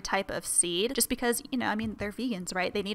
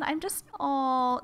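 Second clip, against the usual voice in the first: slow coo; 4 semitones higher, much slower than usual. Real, not acted. Cooing over the rabbit.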